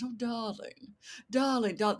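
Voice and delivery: lightly voiced affected New Yorker; a hint of gushing theater type; mock theater darling. Mocking her theater classmates, in a lightly affected gushing voice. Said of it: "they all talked like this".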